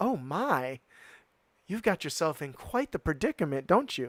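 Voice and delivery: put-on girlish Southern US accent. Voicing a freed little elephant character greeting the party: Southern girl voice. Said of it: "I gave her a Southern girl".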